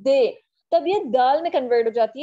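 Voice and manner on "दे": "दे" said firmly with a dental d; d sound demo. Shown as a demonstration. Teacher answering her own question, modelling "दे". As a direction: hit "दे" clearly with a d. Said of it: "क्या पढ़ते हैं?".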